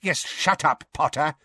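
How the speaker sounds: high, curt rebuke; barked order. A narrator's reading. Minister silencing the boy who interrupts, barking. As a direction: bark it at the boy to silence him. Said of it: "barked Fudge".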